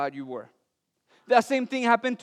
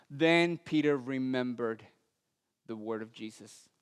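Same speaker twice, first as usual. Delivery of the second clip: slower and much softer, letting it sink in; slow soft repeat; 8 semitones lower, 7 dB quieter than usual. Shown as a demonstration. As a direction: repeat it slowly and quietly to let it land.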